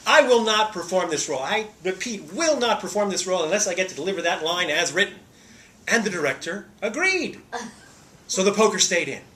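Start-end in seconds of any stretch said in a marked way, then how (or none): 0.1-5.2 firm refusal. Retold or imitated. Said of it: "I fired off an email and I said".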